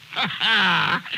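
a warm burst of laughter; happy laugh; hearty laugh. Acted. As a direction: laugh out of sheer happiness. Scrooge laughing for joy.

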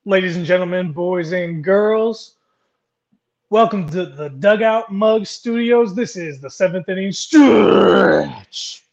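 drawn-out ringmaster welcome, slow; grand entrance announcement. Acted. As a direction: boom it out like a stadium host. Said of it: "Butchered that tonight".

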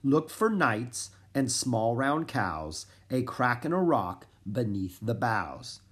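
slow, measured verse recital; deliberate riddle reading with pauses; reading rhyme aloud. A narrator's reading. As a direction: read the clue out carefully, phrase by phrase. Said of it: "showed Gaston the message and read aloud".

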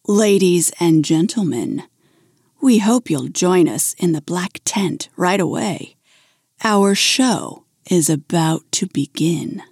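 low, eerie announcer voice; a hint of a haunting announcer. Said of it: "a low, haunting voice piped over the music".

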